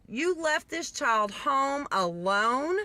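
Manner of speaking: slow, drawn-out disbelieving question; incredulous questioning. Retold or imitated. Officer confronts negligent mother, slow disbelief. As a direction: stretch it toward a rising end.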